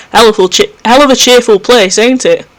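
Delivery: dry, sarcastic quip as the companion; Necron's voice. Acted. Necron remarks on the grim maze, sarcastic. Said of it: "voicing Necron's gruff remark".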